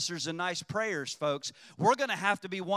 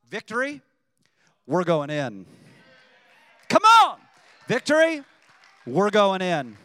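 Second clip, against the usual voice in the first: rallying shout; 8 dB louder than usual. Real, not acted. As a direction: fire up the church. Preacher rallying the congregation.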